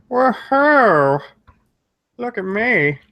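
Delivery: high, loud whoop of joy; happy cheer. Real, not acted. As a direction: cheer like you just won something. Celebrating seventy-nine subscribers.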